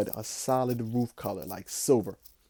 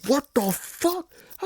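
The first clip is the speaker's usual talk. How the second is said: much higher, slow, stunned; a high, drawn-out what the; shocked exclamation; 14 semitones higher than usual. Retold or imitated. Retold shock.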